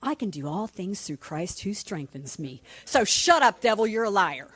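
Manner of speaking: impassioned comeback at the devil; passionate rebuke. Acted. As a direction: start measured, then tell the devil off forcefully. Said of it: "I'm a little passionate".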